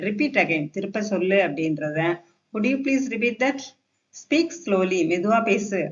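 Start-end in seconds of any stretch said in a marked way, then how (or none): 2.5-3.6 slow, higher polite question; polite request. Shown as a demonstration. Teacher rewords "repeat again" for learners, polite request. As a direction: ask courteously, rising at the end. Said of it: "இந்த மாதிரி பொலைட்டா பேசினா".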